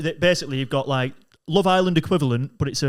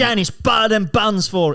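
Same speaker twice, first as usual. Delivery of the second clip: chip shop dad; 5 semitones higher than usual. Acted. Dad character ordering staff.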